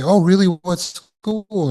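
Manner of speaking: high, light questioning lift; polite curiosity; a hint of an interested listener; mildly interested friend. Friend replies to news.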